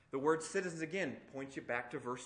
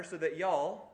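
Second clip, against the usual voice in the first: put-on Southern accent; 2 semitones higher, 4 dB louder, slower than usual. Preacher jokingly quoting Paul's letter to the church, Southern accent. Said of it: "in a southern accent he said that".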